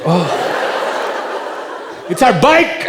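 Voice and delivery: bubbly despite the injuries; cheery girls. Retold or imitated. Injured girls chirping questions at the doctor, bubbly. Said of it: "limping like".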